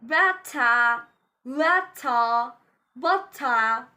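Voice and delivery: "Better, letter, butter" each ending in AH, no R. Shown as a demonstration. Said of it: "A H sound instead of pronouncing E".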